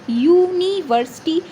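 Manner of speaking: यूनिवर्सिटी drawn out syllable by syllable, "yoo-nee"; sounding out. Shown as a demonstration. Teacher showing which sound starts the word, यूनिवर्सिटी sounded out slowly. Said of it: "यूनिवर्सिटी sound क्या है हमारा".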